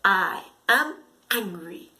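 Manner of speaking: low, loud mock anger; mock angry. Shown as a demonstration. Teacher acting angry for the class, low and loud. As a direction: growl it like a cross child. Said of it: "Red is angry".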